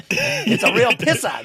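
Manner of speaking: put-on high, loud Boston accent; Ben Affleck Boston accent. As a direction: say it like a Boston guy. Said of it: "Ben Affleck out there with his Boston accent".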